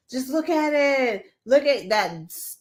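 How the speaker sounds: mock grave Trump voice, lightly done; imitating a solemn presenter; serious and somber. A hint of Trump showing the video, mock somber. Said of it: "voice that he does when he's trying to be, like, serious and somber".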